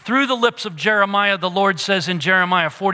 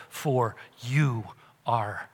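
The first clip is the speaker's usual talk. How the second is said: fading to a whisper; 6 semitones lower, 9 dB quieter, slower than usual. Acted. Preacher closing Psalm 23 to the congregation, fading to a whisper. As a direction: voice sinks softer and softer into a hushed whisper.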